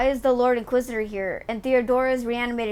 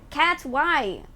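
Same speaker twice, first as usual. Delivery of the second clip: talking to a pet; 3 semitones higher than usual. Real, not acted. Talking to her cat.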